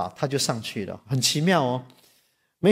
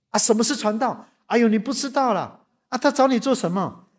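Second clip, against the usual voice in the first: puzzled husband; 7 semitones higher than usual. Retold or imitated. Puzzled husband questions wife.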